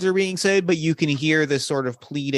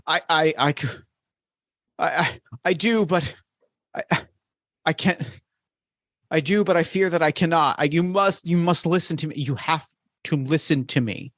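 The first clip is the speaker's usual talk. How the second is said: halting, stammered plea from a desperate shade; distressed pleading; 3 semitones higher than usual. Acted. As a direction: beg to be heard, faltering and restarting. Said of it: "in a state of distress. They are begging".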